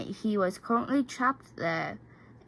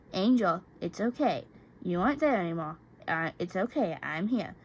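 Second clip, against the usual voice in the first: reassuring; 2 semitones lower than usual. Acted. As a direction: hush him gently out of the nightmare. Soothing boyfriend after nightmare.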